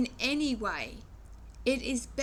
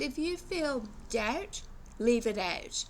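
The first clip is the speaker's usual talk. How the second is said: English accent. Real, not acted. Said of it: "Sorry, that's my English accent".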